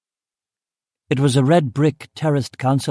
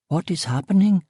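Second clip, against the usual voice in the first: a mildly shaky, frightened question; young woman frightened by the mob at her door, mild tremble; trembling, terrified; 7 semitones higher than usual. A narrator's reading. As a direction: voice lifting higher, a touch of fear. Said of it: "trembling, terrified".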